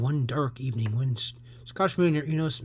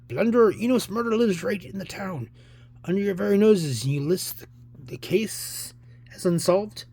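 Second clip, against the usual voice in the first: raised, emphatic scolding; indignant accusation; 5 semitones higher, 4 dB louder than usual. Acted. Friend of the victim berating the inspector, indignant. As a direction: berate the bungling officer.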